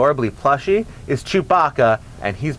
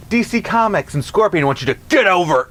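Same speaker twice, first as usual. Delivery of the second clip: Scorpion voice; 3 semitones higher than usual. Acted. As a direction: growl it like Scorpion's spear call. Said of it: "I gotta go for the Scorpion voice better".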